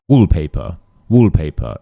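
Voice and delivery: "wallpaper" ending in uh with no R; non-rhotic ending. Shown as a demonstration. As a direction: drop the R at the end of "wallpaper". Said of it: "it ends in a uh".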